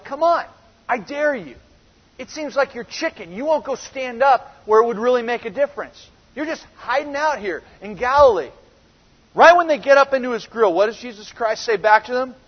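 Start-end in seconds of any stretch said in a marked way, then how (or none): 0.0-8.5 higher-pitched mock dare, not shouted; mild taunting. Brothers daring Jesus to leave Galilee, mildly taunting. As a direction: lightly goad him like a needling brother. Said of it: "getting into his face a little bit".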